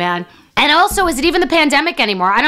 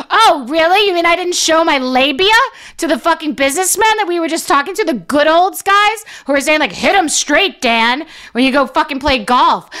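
high, mocking outrage at the text; sarcastic reply, pitched up and indignant; sarcastic rant; 5 semitones higher than usual. Comedian mocks fiance's text with high sarcastic outrage.

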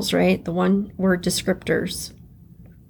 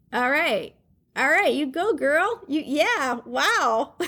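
giggly, higher cheering herself on; laughing self-praise; 5 semitones higher, 4 dB quieter than usual. Retold or imitated. Cheering herself on over last year's list, laughing. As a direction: laugh through it, impressed with yourself.

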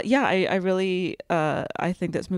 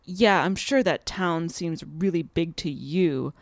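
snooty; slower than usual. Retold or imitated. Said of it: "She is snooty".

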